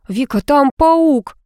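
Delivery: high, slow squealing jock; a big guy shrieking like a girl; girlish squeal. A narrator's reading. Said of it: "верещал по-девчачьи парень".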